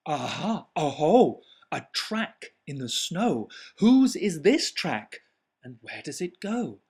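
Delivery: put-on excited child monster. Child calling out in wood.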